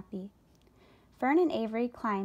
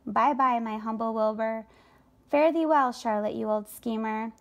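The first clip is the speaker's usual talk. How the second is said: louder, cheeky goodbye; the rat crows his goodbye as he runs off; gleeful farewell; 5 dB louder than usual. Acted. Rat gleefully leaving for the fair.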